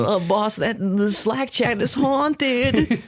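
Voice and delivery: high, slow, nervous little voice; timid scared voice. Retold or imitated. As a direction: squeak it out like a frightened employee. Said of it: "I'm like".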